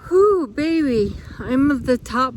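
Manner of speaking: loud, high exhale of relief after the climb; relieved whew at the top. Real, not acted. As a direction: blow it out, glad the climb is over. Reaching the top after steep climb.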